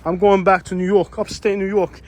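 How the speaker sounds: hammed-up fed-up New Yorker; New York accent. Vlogger repeating the lady's rant, laughing at her New York accent. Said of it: "the most stereotypical New York accent".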